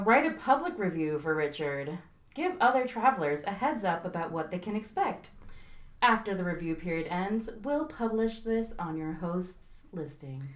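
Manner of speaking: flat, even futuristic robot voice. Pretend. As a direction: read it out like a robot. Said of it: "You sound like a futuristic robot voice".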